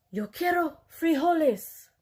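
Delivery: slow, grave, solemn declaration; mock-somber, drawn-out pronouncement. A narrator's reading. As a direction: declare it like a solemn vow, slowly. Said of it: "in his most somber voice".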